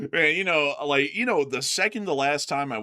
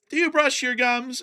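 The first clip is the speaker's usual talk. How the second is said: hygienist quote; 12 semitones higher, 4 dB louder than usual. Retold or imitated.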